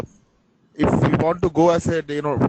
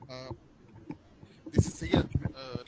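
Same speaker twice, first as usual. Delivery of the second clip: faint voice, almost whispered; words nearly lost to the mic; barely audible; 2 semitones lower, 11 dB quieter than usual. Real, not acted. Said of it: "voice is very low".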